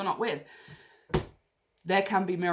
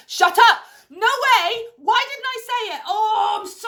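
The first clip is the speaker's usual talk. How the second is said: shrieked "Shut up!" much higher and louder; shocked; 13 semitones higher, 9 dB louder than usual. Real, not acted. Reader stunned by the card she drew, shrieking. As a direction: squeal in real disbelief.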